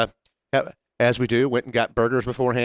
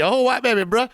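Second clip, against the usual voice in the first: high-pitched mock amazement; hammed-up catchphrase; 8 semitones higher than usual. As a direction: pitch it up and play it big. Catchphrase exclaimed with the co-host.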